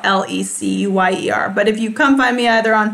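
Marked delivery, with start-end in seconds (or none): 0.1-1.5 letters "L E C U Y E R" said one by one; spelling it out. Shown as a demonstration. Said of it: "my last name is spelled".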